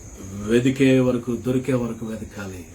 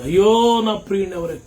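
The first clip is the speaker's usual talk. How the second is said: high, louder mock lament, a touch of tears; acted weeping cry; 5 semitones higher, 3 dB louder than usual. Pastor voicing Mary weeping for her Lord, mild mock wail. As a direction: cry out like a grieving woman searching. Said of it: "అని ఏడుస్తూ వెతుకుతుంది".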